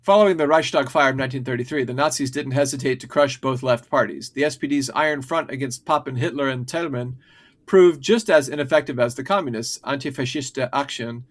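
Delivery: brisk scripted read, pushing through; reading aloud. Acted. Reads a prepared history script.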